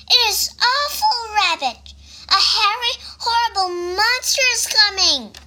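high, urgent storybook mouse; alarmed warning. A narrator's reading. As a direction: warn them in mock fright. Mouse warns Rabbit.

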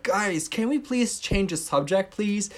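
high, slow pleading Rachel voice; mock exasperated plea; quoting Rachel. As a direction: beg them to change the subject. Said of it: "And Rachel said".

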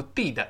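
"did" misread as "deed-uh"; wrong long vowel. Shown as a demonstration. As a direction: stretch "did" into a long ee and release the final d. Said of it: "而不要读did".

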